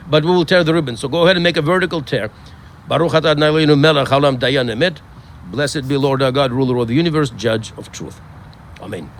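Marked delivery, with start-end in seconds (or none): 2.9-9.1 steady, measured blessing over the mourners; solemn Hebrew blessing with its English rendering; prayer recitation. Acted. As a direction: recite it like a prayer, a little quicker.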